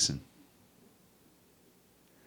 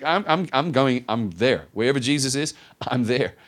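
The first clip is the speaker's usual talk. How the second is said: eager insistence; 3 semitones higher, 4 dB louder than usual. Retold or imitated. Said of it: "She's like".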